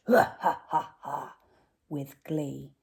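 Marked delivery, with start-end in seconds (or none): 0.1-1.4 laughing. Acted. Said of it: "they laughed".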